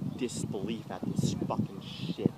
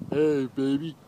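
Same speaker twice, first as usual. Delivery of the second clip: louder mock seductive come-on; sleazy flirt; 2 semitones higher, 7 dB louder than usual. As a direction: ham up a sleazy pickup line. Parodying troll's come-on.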